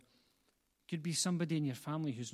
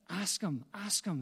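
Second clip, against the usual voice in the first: higher-pitched, insistent imitation of a child; insistent, falling punch on each plea; urgent urging; 4 semitones higher than usual. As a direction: imitate a kid pressing urgently, pitch raised. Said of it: "There's that urgency in his, in his spirit".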